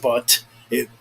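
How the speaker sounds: stumbling over the numbers; tripping over the words, slow; stuttering. Real, not acted. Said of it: "I'm fucking stuttering all over myself".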